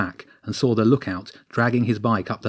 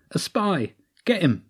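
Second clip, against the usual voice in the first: shouted order; 8 semitones higher than usual. Acted. Lookout spots James, orders chase.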